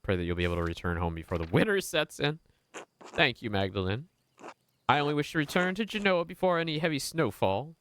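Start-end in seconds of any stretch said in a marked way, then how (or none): 1.5-7.8 put-on higher, courteous Italian-accented merchant; gentle Italian accent, lifted pitch, unhurried. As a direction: speak as a polite Genoese trader in an Italian accent. Voices Naziu, Genoese merchant.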